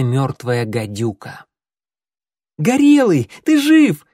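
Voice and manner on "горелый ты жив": high, loud joyful cry; joyful exclamation. A narrator's reading. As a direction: shout it out with relief. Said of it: "воскликнул Огонёк".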